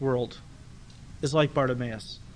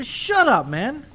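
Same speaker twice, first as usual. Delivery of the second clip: high, louder snapping shut-up; rude hush; 8 semitones higher, 5 dB louder, much slower than usual. Retold or imitated. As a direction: shove him down with words. Crowd hushing the blind man.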